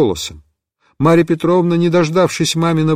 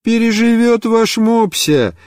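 cheerfully; 6 semitones higher than usual. A narrator's reading. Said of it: "весело сказала мама".

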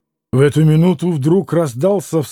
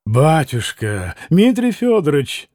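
pleading proclamation; 2 semitones lower than usual. Acted. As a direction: appeal to him respectfully but urgently. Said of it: "возгласил Трифон Борисович".

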